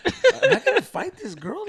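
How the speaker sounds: high, loud mock panic; retold scare. Storyteller facing a fight with a girl, mock alarmed squeal. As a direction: squeak it like a comically frightened man. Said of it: "scared, fool, 'cause I'm like".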